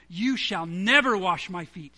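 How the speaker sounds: stubborn Peter, loud and firm; emphatic refusal. Retold or imitated. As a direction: plant your feet and refuse outright. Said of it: "he responds emphatically".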